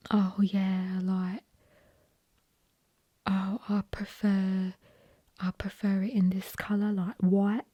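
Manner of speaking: imitating put-on Essex talk; mock Essex accent. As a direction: mimic a fake Essex speaker. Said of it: "when people say certain words and they're like".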